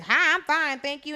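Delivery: high, perky mock phone answer; American woman. Imitating the American woman answering the phone, high mock politeness. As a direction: imitate her greeting, high and loud at first. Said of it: "some American woman answered the phone".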